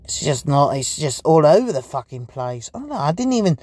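rough, strained throat voice; talking through a sore throat. Real, not acted. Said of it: "I'm talking weird 'cause I've got something wrong with my fucking throat".

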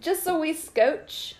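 slow, halting mock Irish; a shy, half-hearted stab at an Irish lilt; attempted Irish accent. Wife tries an Irish accent when her husband asks, slow and halting. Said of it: "Give me your Irish".

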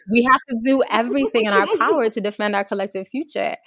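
put-on rally the kids' club, playfully overearnest; earnest kid urgency. Speaker voices the junior ecologists, mock-urgent.

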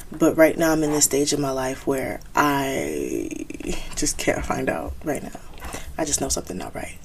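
tearful. Real, not acted. Admits struggling, voice cracks.

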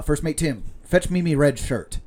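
mild pirate growl of an order; pirate captain. Acted. Captain orders his first mate with a hint of pirate.

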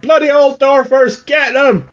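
rally the mob against the dwarves; angry man. Acted. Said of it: "this angry man's like".

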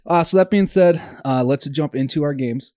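slightly out of breath, talking on; a little winded between words. Real, not acted. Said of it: "I'm a little out of breath".

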